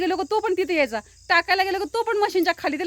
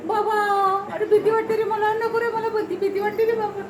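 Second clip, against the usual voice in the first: higher whiny little voice, scared of being held; scared goat kid; 5 semitones higher than usual. Pretend. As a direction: whimper as the frightened kid. (घाबरलेल्या पिल्लाचा बारीक आवाज)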